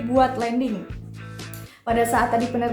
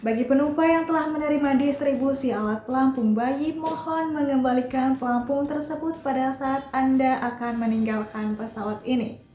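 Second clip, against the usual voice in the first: polite after-landing PA voice; flight attendant. Shown as a demonstration. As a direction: welcome them like a cabin announcement. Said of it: "Kayak gini bunyi announcement-nya".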